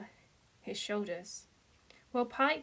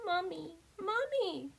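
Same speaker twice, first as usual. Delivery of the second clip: high, tearful calls for mum; a small child crying for his mother; sobbing child; 9 semitones higher than usual. A narrator's reading. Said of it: "Pike sobbed".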